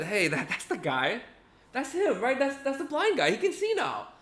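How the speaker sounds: high, amazed pointing-out voice; excited neighbor. Retold or imitated. Neighbor recognizing the healed beggar, high and amazed. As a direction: marvel that it's really him.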